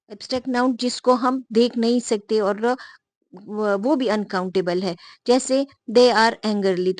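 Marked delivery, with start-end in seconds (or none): 5.9-7.0 slow, deliberate example sentence. Shown as a demonstration. Teacher slowly reading an example to students. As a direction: read it word by word, slowly. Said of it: "तो angrily के साथ".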